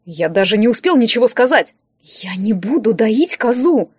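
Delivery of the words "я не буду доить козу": slow, hissed through the teeth; hissed refusal. Acted. Liza refuses to milk the goat, hissing slowly. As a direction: spit it out slowly, refusing hard. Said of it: "прошипела я".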